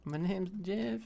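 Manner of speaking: high-pitched meme impression; Jeff meme voice. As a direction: do the meme line in a high accented voice. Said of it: "Say, "My name is Jeff" meme".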